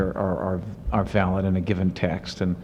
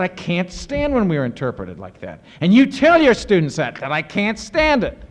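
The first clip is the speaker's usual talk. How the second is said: higher, pained imitation of exasperation; imitated anguish; 7 semitones higher than usual. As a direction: plead that you can't stand it. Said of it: "he really lost his temper".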